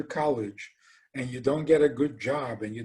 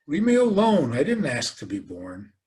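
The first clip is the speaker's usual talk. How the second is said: put-on defiant child. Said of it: "You hear children today saying".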